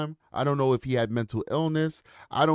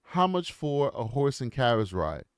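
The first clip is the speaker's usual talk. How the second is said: understated, courteous youngster addressing a sir; respectful kid; 3 semitones lower than usual. Retold or imitated. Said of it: "I was a very respectful kid".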